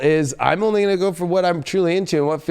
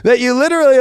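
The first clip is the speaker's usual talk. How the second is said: worked up; 8 semitones higher, 3 dB louder than usual. Real, not acted. Reader describing a crazy relationship, high and worked up. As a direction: stretch it out high and emphatic.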